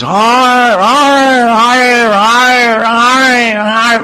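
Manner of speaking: high loud barking arr; imitated dog woofs. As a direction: bark it out like the top dog. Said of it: "like this, you know".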